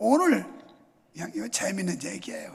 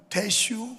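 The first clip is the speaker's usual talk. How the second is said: Chungcheong dialect; much slower than usual. Retold or imitated. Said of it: "충청도는".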